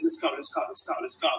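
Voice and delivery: retold call to finish the game fast; urging on. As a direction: hurry the team along, impatient to get home.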